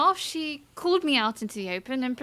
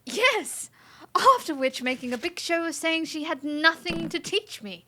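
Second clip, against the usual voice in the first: indignant; 6 semitones higher than usual. Acted. Indignant outburst recounting humiliation.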